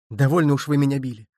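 plain reading voice

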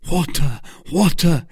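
high call for water; urgent cry. A narrator's reading. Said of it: "cried D'Artagnan".

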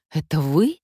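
plain reading voice

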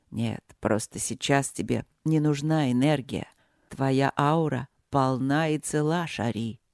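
low, rumbling male voice; rumbling dragon. Acted. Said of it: "пророкотал дракон".

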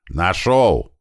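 contained acted yell; Кирпич yelling. Fighter answering his leader's search order, contained yell. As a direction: call out the find, punched on the end. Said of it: "заорал Кирпич".

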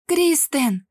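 high, loud cry of a name; desperate scream. A narrator's reading. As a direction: scream his name in panic. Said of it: "кричала Эвелина".

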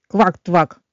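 startled little croak, bird's mock of frog; surprised croak. A narrator's reading. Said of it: "удивился Кеша".

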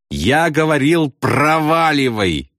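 high, drawn-out exasperated cry; shrieked reply. A narrator's reading. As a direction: cry it out, near tears. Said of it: "взвизгнул Ясариан".

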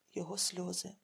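plain reading voice

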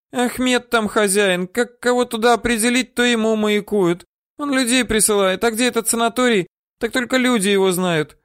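put-on high squeaky old-woman voice; terrified woman babbling what she knows; squeaking. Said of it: "пищала баба".

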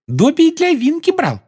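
very high joyful elf squeak; proud little elf; happy squeaky elf. Acted. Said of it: "радостно сообщил эльф".

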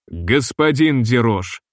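slow, solemn naming; solemn address. Acted. Комиссар торжественно обращается к капитану, медленно. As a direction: weigh each word gravely. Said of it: "сказал Петтибон торжественно".

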